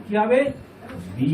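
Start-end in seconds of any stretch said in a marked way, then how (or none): 1.2-1.3 "বি" with the i held long; one-alif madd. Shown as a demonstration. Teacher modelling zer plus ya, "বি" held long. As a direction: draw out the vowel of "বি". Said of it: "এক আলিফ মাদ হবে".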